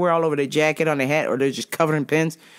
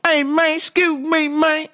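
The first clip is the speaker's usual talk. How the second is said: high-pitched mock calling out; aggressive customer; 11 semitones higher than usual. Customer calling after a passing coworker, aggressively. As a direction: imitate a pushy man hailing someone. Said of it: "the attitude is very aggressive".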